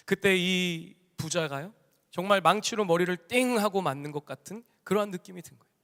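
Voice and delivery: usual speaking voice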